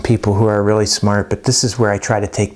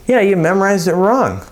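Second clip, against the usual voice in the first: teacher's retort; 8 semitones higher than usual. Acted. Acted teacher retort to student's excuse.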